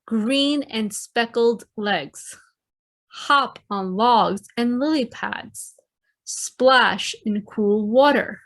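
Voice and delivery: slow, gentle haiku read to the class; poem reading. Acted. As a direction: let each line hang like a picture. Reads a haiku to children.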